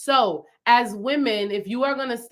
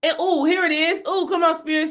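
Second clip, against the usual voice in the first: high excited ooh; thrilled, a revelation just landed; high and excited, inspired; 6 semitones higher than usual. Real, not acted. Sudden inspiration.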